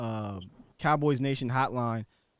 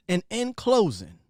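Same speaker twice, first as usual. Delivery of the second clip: slow, drawn-out imitation of the host's closing line; signature sign-off; 4 semitones higher than usual. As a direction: lean into "And in closing" slowly, like a trademark sign-off. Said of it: "I was waiting for that".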